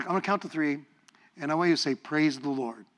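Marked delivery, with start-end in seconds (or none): 2.0-2.9 soft example. Shown as a demonstration. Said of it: "do it with umph".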